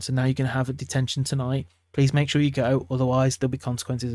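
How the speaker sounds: calm, level, sorry-sounding sanction. Shown as a demonstration. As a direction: deliver the detention calmly and matter of fact. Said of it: "just say it calmly".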